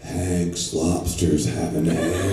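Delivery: relax it all the way down; mock chill ad read. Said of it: "you gotta chill out".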